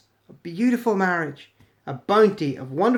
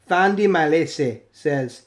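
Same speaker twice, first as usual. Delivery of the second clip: usual speaking voice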